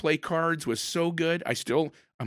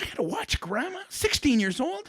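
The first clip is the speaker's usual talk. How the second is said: put-on whiny teen complaint; 9 semitones higher than usual. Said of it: "I'm like".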